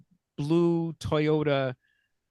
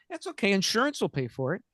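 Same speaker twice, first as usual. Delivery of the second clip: breezy salesman; 4 semitones higher than usual. Retold or imitated. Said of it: "He says".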